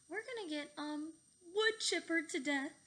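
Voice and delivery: high, frantic wail; panicked cry. A narrator's reading. Fluffy heading for the wood chipper, high panicked wail. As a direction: wail it in terror. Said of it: "cried Fluffy".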